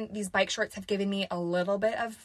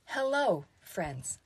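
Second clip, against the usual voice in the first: stiff upbeat influencer voice, like a weird Alexa; robotic Valley Girl voice; 4 dB quieter, slower than usual. Retold or imitated. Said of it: "that sounds like a weird Alexa".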